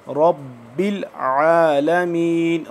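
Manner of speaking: रब्बिल with a doubled, held ब, very slow; drawn-out recitation. Shown as a demonstration. Teacher models रब्बिल आलमीन for students, slow and drawn out. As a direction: hold the shadda in रब्बिल. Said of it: "थोड़ा सा खींच के पढ़ेंगे".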